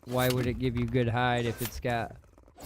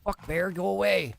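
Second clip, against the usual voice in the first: being chased; 7 semitones higher, 3 dB louder than usual. Real, not acted. Bear chasing him.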